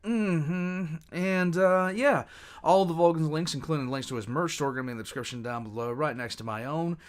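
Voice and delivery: cheerful plug for the links; hyped outro. Real, not acted.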